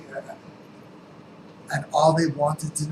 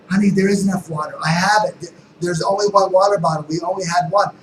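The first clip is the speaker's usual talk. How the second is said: louder, higher, fast insistent mom; exasperated mom; 4 semitones higher, 11 dB louder than usual. Retold or imitated. Mom snapping back at her curious child, loud and fast. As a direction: brush off the child's worry, raising the voice. Mom answering kid's questions.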